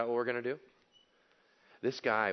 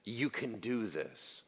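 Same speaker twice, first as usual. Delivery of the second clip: imitating a desperate father, hushed; soft pleading cry; 2 semitones lower, 5 dB quieter, much slower than usual. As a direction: plead softly, drawing the words out. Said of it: "And he cried out".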